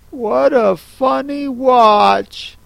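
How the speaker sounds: put-on curious little girl, slowly; Alice remarking. Alice, peering at the Hatter's watch, curious and slow. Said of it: "she remarked".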